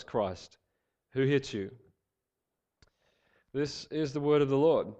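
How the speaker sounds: projected, measured Bible reading; scripture reading. A narrator's reading. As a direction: read the passage out clearly to a congregation, phrase by phrase. Reads scripture to the congregation.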